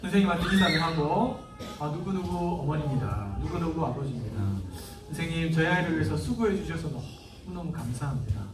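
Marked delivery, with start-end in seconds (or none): 1.8-8.4 humbly polite to the teacher. Shown as a demonstration. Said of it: "이렇게 정중하게 말하는 거예요".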